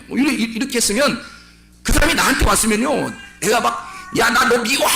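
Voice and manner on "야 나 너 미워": mock yell. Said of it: "이러겠어요".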